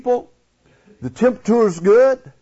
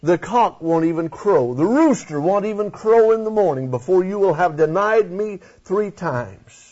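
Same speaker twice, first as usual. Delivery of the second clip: Jesus speaking gently. Retold or imitated. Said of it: "And he says".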